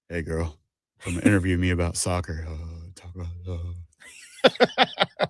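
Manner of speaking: low soft flirty line; a hint of a pickup-line purr; seductive voice. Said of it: "You gotta say it like a soccer player".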